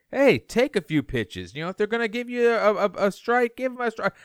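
high, urging movie-coach voice; Brad Pitt impression. Coach telling hitters to take pitches, in a Brad Pitt impression. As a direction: impersonate a film star pleading for patience at the plate. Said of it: "That was a great Brad Pitt impression".

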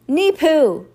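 put-on high, loud baby-talk shout; ringing cry. A narrator's reading. Toddler interrupting the count, ringing out. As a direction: let the nonsense word ring out. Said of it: "Sonny's unmistakable voice rang out".

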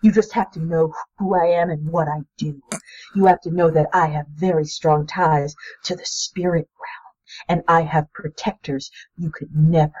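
quiet, controlled anger sinking toward a whisper; understated anger. Acted. Marie turns on her friend, quietly angry. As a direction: let restrained anger drop away to a near-whisper. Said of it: "anger flashing in her eyes".

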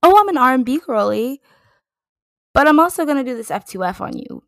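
high, loud, quick brag; imitating the singer. Fan voicing a singer announcing every genre she'll do, imitating her. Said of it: "She was like".

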